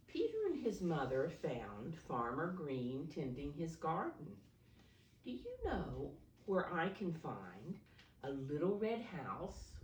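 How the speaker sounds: gentle, clear storybook reading for little ones; reading to children. A narrator's reading. Teacher reading a picture book to preschoolers, storybook voice.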